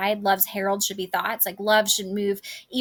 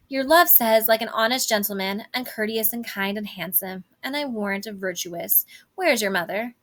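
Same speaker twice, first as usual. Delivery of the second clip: nurse stalling. Acted. Nurse evading Juliet's question about her love, lightly acted stalling. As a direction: recite the compliments, then casually change the subject. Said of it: "she asks where Juliet's mother is".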